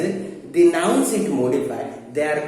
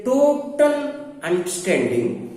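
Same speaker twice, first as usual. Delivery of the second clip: "total" drawn out before its noun; stress on TOTAL; 6 semitones higher, slower than usual. Shown as a demonstration. Teacher giving an example to students, slow stress on "total". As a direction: stretch "total" slowly for emphasis. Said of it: "they are giving emphasis on the noun".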